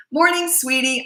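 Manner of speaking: high, bright sing-song hello; cheery mom greeting her son, high. Retold or imitated. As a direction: chirp it out cheerfully.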